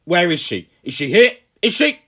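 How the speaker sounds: loud, high furious rant. A narrator's reading. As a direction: rant at the boy, fist shaking. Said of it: "the Colonel ranted on".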